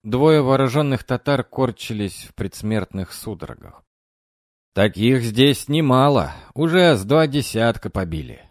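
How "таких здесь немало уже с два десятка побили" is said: bragging soldier; boasting. Acted. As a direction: brag about the kills. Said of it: "словно бы хвастался".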